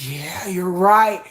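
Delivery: slow, drawn out, convinced; slow realisation. Pretend. Finally convinced by her doubts, slow. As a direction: let it sink in slowly.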